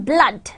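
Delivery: "blood" with short uh vowel; double O sound. Shown as a demonstration. Teacher demonstrates double O to learners, uh in "blood". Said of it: "interpretations of one sound".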